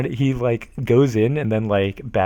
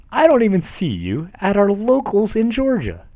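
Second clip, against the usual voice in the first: mock outrage; 10 semitones higher than usual. Reading angry rant post.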